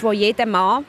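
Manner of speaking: light emphasis on "Mann"; stress on Mann. Real, not acted. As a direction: lean a little on the word "Mann". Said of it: "Betonung auf Mann". (Betonung auf «Mann»)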